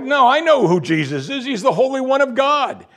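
half-laughing demon insisting; mocking demon. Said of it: "The demon's like".

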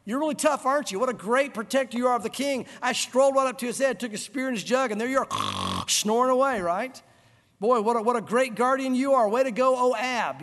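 loud, high sarcastic jeering; mocking taunt. David mocking Abner for sleeping on guard, loud sarcastic taunt. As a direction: rub it in, sneering mockery. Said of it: "David's kinda taunting Abner".

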